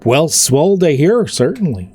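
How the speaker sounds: easygoing orc chatting, relieved; friendly orc. Acted. Orc tells Royale with Cheese he's fine, lightly voiced.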